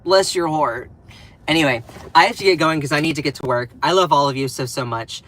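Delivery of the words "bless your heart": full-voiced sugary "Bless your heart."; southern bless your heart. Southern streamer to a hater, sugary mock sweetness said aloud. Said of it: "as a southern little gay guy".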